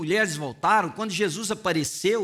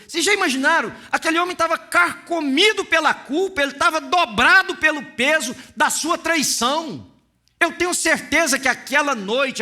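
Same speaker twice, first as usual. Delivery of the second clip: louder, higher fervent preaching voice; 6 semitones higher, 5 dB louder than usual. Acted. Preacher stirs the church about Peter's guilt, fervent and loud. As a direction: lift the room with rising passion. Preacher builds to full force.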